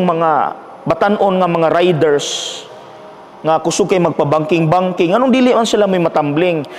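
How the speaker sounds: retold plea to God. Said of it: "ni question sa Diyos".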